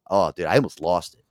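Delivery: normal talking voice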